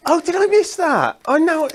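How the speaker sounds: high embarrassed realisation, laughing; surprised. Real, not acted. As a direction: gasp it out, caught out. Realises idea was Lisa's.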